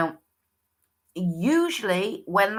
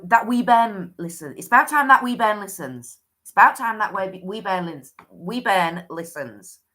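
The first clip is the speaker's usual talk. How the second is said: put-on Scottish accent; 4 dB louder than usual. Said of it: "I can't do it in a Scottish accent".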